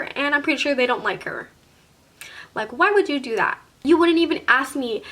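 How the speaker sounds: heated, building retold demand; angry confrontation. Girlfriend calls boyfriend out before friends, angry confrontation. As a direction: tear into him, rising as it goes.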